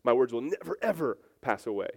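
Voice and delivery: never and ever each hit hard; emphatic never ever. Shown as a demonstration. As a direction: drive home never, ever. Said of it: "It's an emphatic no".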